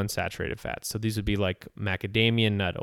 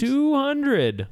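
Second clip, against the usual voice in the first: Two hundred pitched sharply high, stress on two; emphatic echo; 4 dB louder than usual. Real, not acted. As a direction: hit "Two hundred" hard to drive the number home. Echoing the shocking figure.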